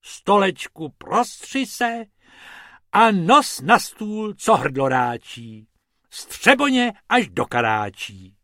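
high, loud singsong spell; high chanted magic rhyme; rabbit's magic rhyme. Acted.

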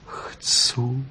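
soft, humble whispered "Chcu". Acted. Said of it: "odvětila pokorně".

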